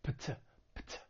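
"pt" as a crisp P straight into T, no vowel sound; isolated, unvoiced "pt"; voiceless PT cluster. Shown as a demonstration. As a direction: pop the P, then release a light T in "pt". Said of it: "It's gonna sound like".

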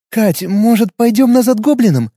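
high, sour half-laugh; bitter wry quip; joyless wry joke. Acted. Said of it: "невесело усмехнулась Аня".

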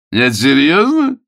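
loud, high, slowed disbelief; incredulous shout. A narrator's reading. Galahad can't believe Sue loves his nephew, shouting in disbelief. Galahad shocked at her choice.

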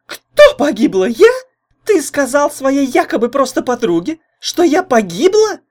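put-on high, loud, sarcastic girl; snide repeat. A narrator's reading. Jealous girlfriend throws his lie back at him, snide and high. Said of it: "ехидно повторила Лайда".

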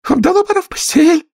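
canary mother calling her chicks; trembling canary. A narrator's reading. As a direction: call chicks tremulously. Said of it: "дрожащим голосом".

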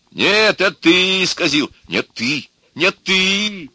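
high, emphatic back-and-forth accusations; bickering. A narrator's reading. Two men blaming each other before a policeman, bickering. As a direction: squabble childishly, each retort insistent.

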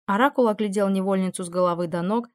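usual speaking voice

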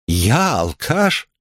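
drawn-out menacing disbelief; slow incredulous question. Acted. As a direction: ask it slowly, as a threat. Кридмар переспрашивает с угрозой. (медленно, недоверчиво и угрожающе)

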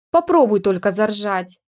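a mild snap in a thin voice; husband in wife's body snapping at her not to laugh; barked in a thin voice. Acted. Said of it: "рявкнул муж моим тоненьким голоском".

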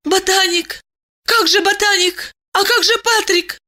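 bewildered woman. A narrator's reading. Diana stares at Eliseev, high and confused. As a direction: say it high, as if losing her mind.

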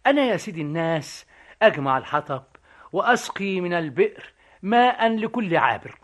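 quick line in Egyptian dialect; Egyptian accent. Retold or imitated. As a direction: retell it with an Egyptian lilt. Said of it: "باللهجة المصرية". (باللهجة المصرية)

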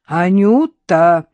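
a drawn-out warning call of the name. A narrator's reading. Innokenty warns his dog off the narrator, slow and loud. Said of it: "предостерегающе заговорил Иннокентий".

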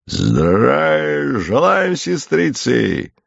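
slow, drawn-out cheerful soldier's hail; a soldier's hearty, stretched-out greeting; beaming soldier's greeting. A narrator's reading. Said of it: "улыбаясь во всю улицу".

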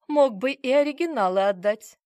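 smirking. A narrator's reading. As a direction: tease him with a smirk. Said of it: "усмехнулась я". (с усмешкой, громче и выше)

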